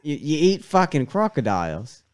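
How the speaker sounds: mock Aussie disbelief; Australian accent. Guest reacts to co-host eating crocodiles, mock Australian accent. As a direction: question it in a put-on Australian accent. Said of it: "I'm going Australian".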